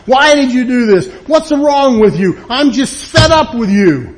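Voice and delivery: a spouse being yelled at in the living room, hammed-up shouting; angry yelling at spouse. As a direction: act out a fed-up blow-up at home. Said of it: "You're screaming and yelling at your spouse".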